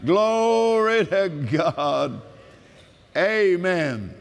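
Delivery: laughing glory to God; joyful praise. Real, not acted.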